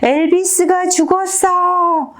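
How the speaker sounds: high, drawn-out wail without full volume; slow, very high storytelling scream; mock shriek. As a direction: act out a girl screaming her lungs out. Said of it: "막 악을 쓰듯 소리 지르는 거예요".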